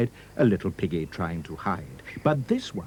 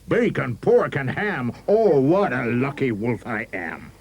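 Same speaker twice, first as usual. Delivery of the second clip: gleeful wolf shout; 5 semitones higher, 3 dB louder, slower than usual. A narrator's reading. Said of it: "He shouted".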